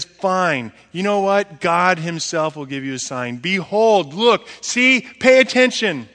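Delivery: prophet Isaiah. Acted. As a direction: announce the sign to the king. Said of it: "And he says".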